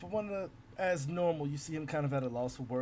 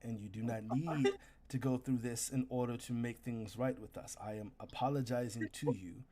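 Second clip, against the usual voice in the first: kneel and apologize gravely; sincere warrior apology; 2 semitones lower than usual. Acted. GM voices the kneeling hunter.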